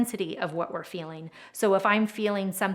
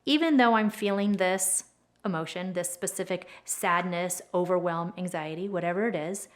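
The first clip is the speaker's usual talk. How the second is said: calm demo statement. Shown as a demonstration. Tapping coach modelling the setup statement calmly. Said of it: "The setup statement sounds something like".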